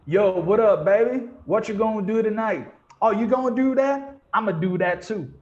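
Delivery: loud, high Black English street greeting. Shown as a demonstration. Showing what textbooks leave out, loud Black English. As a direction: call out big and casual in African American English. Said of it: "You never see anybody going like this".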